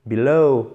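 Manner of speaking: below with a long -low gliding into ou; slow teacher's demo of be-LOOW; drawn-out diphthong ending. Shown as a demonstration. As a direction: drag out the end of below as a double sound. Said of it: "vous faites traîner sur la fin".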